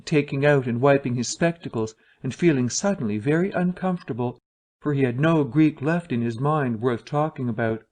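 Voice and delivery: plain reading voice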